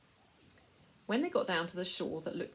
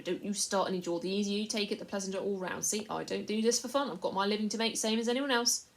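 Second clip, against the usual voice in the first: a rough trader voice, a little higher; coarse slaver; 3 semitones higher, 7 dB louder than usual. A narrator's reading. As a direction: talk down to the boy like a crook. Slaver lectures Caspian.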